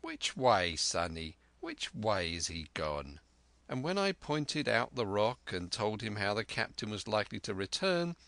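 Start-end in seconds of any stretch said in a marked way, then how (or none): 0.0-3.2 put-on sly old pirate. Black Dog voiced in story.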